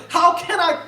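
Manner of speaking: high, loud, stretched-out plea; acted desperate outcry; anguished protest. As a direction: cry out in hurt disbelief. Voices the mother's anguished protest.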